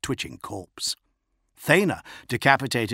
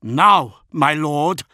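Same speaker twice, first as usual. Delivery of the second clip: urgent plea; 7 semitones higher, 10 dB louder, much slower than usual. A narrator's reading. Urging lord to leave.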